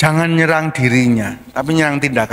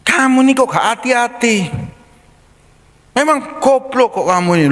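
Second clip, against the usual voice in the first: higher mock scolding; scolding parent; 8 semitones higher than usual. Pastor acting a parent scolding a child over a glass, mock angry. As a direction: play an exasperated parent snapping at a child. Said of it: "Kita marahnya gimana".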